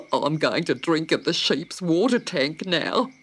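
lively silly bird voice; a giddy big bird; chatty emu. A narrator's reading. Emu invites Dot along, chatty and silly. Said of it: "said the big bird".

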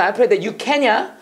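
very slow, word by word; slow model phrase. Shown as a demonstration. Teacher modelling an allowed prayer phrase, very slow. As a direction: lay it out for them to copy. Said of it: "우린 이렇게 할 수 있어".

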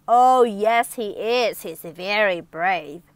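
a mild storybook shout, insisting; crowd shouting. Acted. Crowd contradicting Little Miss Trouble, mild shout. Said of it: "Everyone shouted".

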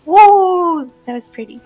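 ordinary talk

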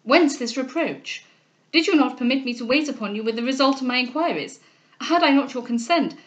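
mildly astonished questioning; a touch of bewildered protest; amazed. Acted.

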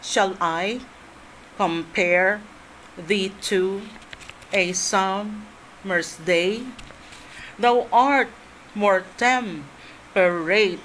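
slow, measured sonnet reading with pauses; poem recitation. Shown as a demonstration. Teacher reciting Sonnet 18 to class, slow and measured. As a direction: recite each phrase slowly, like verse. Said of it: "let's say, sonnet eighteen".

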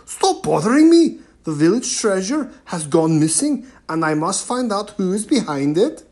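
loud, impatient chieftain; irritated chief. A narrator's reading. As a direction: snap at the girls to go away. Irritated chief brushes girls off.

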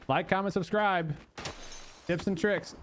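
hyped streamer promo voice; mock YouTuber plug. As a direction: pitch it like a YouTuber.

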